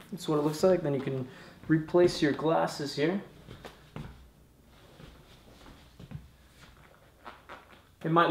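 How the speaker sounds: muffled behind helmet chin bar; speaking inside a helmet. Real, not acted. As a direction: voice enclosed by full-face helmet. Seen 2: Full-face helmet on, chin bar covering mouth throughout labelled words.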